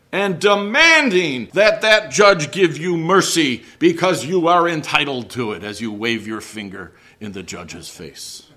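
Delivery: loud, indignant demand; mock demanding. Imagined defendant demanding mercy from a judge, indignant. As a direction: pretend to lecture the judge, finger wagging. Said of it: "Imagine standing before a judge".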